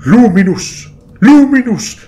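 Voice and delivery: high, loud battle cry, rising in pitch; shouted call. Acted. Hero summoning his power with a loud shout. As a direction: hurl the name out across the battlefield.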